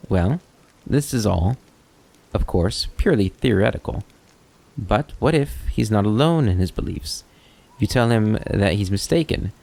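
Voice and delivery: lightly voiced kobold storyteller with a lilting tune; a hint of an eloquent kobold debater; philosophical kobold. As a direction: lay out a dilemma with mild theatrical relish. Kobold argues his hypothetical.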